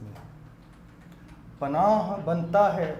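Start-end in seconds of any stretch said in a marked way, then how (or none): 1.6-2.9 slow, measured poetic recital; naat recitation. Acted. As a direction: recite the verse with reverence. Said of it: "نعت کے چند شعر پیش کرنا چاہوں گا".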